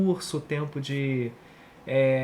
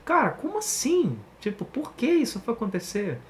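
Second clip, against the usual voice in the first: surprised; 5 semitones higher than usual. Acted. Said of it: "e ele é porquê naquele sentido".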